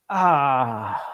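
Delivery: long, falling "ah" of disappointment; disappointed groan. Real, not acted. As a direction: let out a drawn-out groan of defeat. Groans at losing the point.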